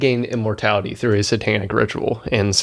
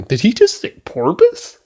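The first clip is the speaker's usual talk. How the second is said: laughing disbelief; 11 semitones higher, 3 dB louder than usual. Retold or imitated. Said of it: "The way that he said it, though, he's, like, laughing".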